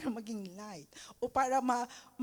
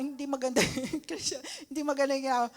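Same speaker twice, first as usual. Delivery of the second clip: fast defensive excuse; 3 semitones higher, 4 dB louder, much faster than usual. Retold or imitated. Defensive Christian excusing himself.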